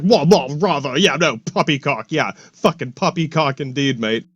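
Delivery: scoffing in a put-on upper-class British accent; mock posh British accent. Mocking British people brushing off the past, hammed-up posh British accent. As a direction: lampoon a huffy British gent in a British accent. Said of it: "to some British people, it's like".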